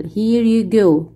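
drawn-out question for the class; slow it down word by word; very slow model reading. Shown as a demonstration. Teacher as flight attendant, slow model question. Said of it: "واحد بيكون هو المضيف للطيران".

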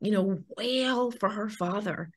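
soft, breathy whisper of sudden sympathy; hushed inner thought. Retold or imitated. Mother silently realizing the nurse's pain, soft whisper. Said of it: "And I just thought".

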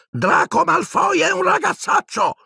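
very high, angry squeaky elf; a small elf bursting out in anger; angry squeak. A narrator's reading. Dobby angrily squeaking at Creature, very high voice. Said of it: "squittì Dobby arrabbiato".

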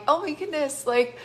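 giddy, imagined exclamation; giddy with excitement. Acted. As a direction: act out someone thrilled and amazed. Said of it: "giddy with excitement".

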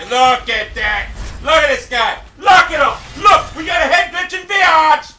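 exasperated, rising outburst at the enemy; real exasperated outburst. Real, not acted. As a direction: rant at a cheating opponent. Gamer rages at opponent.

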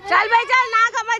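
high, loud call. Real, not acted. Calling out to child.

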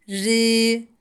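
"Ri" said thin and light, forward in the mouth. Shown as a demonstration. Teacher shows the thin Ra with esre. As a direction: keep the R light. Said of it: "esre olursa o zaman da ince okunur".

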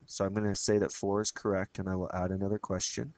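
hoarse, stuffy voice from a cold; nasal twang from laryngitis. Real, not acted. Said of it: "I have laryngitis and a cold, ... if I sound a bit twangy".

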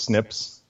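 "snips" said as one syllable, like the word. Shown as a demonstration. Scientist shorthand explained to the host, "snips" said as one word. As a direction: say "snips" as a single word, not letters. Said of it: "they just pronounce it as snips".

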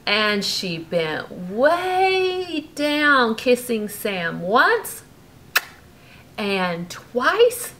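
lively bedtime storybook reading; reading to a child. A narrator's reading. Parent reading a bedtime story to Brooklyn, lively. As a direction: read it like a bedtime story to a little one. Reading picture book aloud.

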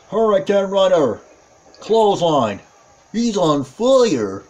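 punchy ringside commentator excitement; excited play-by-play. Real, not acted. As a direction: call each move with rising excitement. Calling a wrestling move live.

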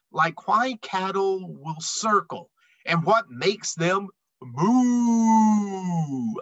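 lively rhyming read-aloud; storybook voice for kids; reading to children. A narrator's reading. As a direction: read the rhymes to a young audience. Reads picture book aloud.

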